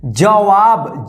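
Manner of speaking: "जवाब" drawn out very slowly, syllable by syllable; slow demo. Shown as a demonstration. Teacher models the word for students, very slow and clear. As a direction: spell "जवाब" out slowly for beginners. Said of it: "अब देखिए यहाँ पे".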